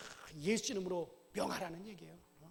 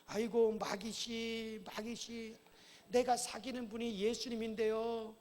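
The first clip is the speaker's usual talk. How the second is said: slow, overly polite begging; mock polite pleading; slower than usual. Preacher mocking a too-polite prayer, slow timid pleading. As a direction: plead meekly with the devil as a bad example. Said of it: "예의를 지키면 절대 안 됩니다".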